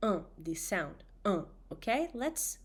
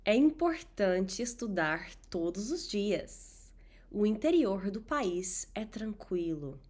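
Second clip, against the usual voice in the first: whispering; 3 dB louder than usual. Acted. Whispered example sentences.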